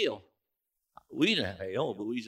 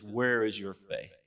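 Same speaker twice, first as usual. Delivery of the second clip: slow rebuke; 4 semitones lower, slower than usual. Acted. Jesus rebukes the disciples.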